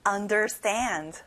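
"Understand" said slowly, weight on "stand"; stress on STAND. Shown as a demonstration. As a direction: stretch out and stress the last syllable of "Understand". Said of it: "stand에 강세를 넣어볼까요".

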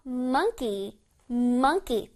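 "monkey" with a distinct first syllable MON. Shown as a demonstration. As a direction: articulate the MON of "monkey" clearly. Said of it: "뚜렷하게 M O N 부분을 발음해주는".

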